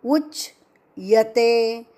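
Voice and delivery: उच्यते with a half च, no doubled च; आधा च; half cha. Shown as a demonstration. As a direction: say उच्यते lightly, with a single च. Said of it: "आधा च".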